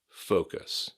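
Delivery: "Focus" said alone with a full OH; careful one-word "Focus" with a long O; long O sound. Shown as a demonstration. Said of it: "focus with an O sound".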